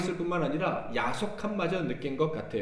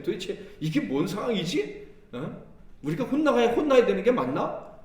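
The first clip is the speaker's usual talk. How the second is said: higher, louder bewildered question; baffled disbelief; 6 semitones higher, 3 dB louder than usual. Retold or imitated. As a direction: voice the disciples' confusion. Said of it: "이런 생각까지 들었을 것 같아요".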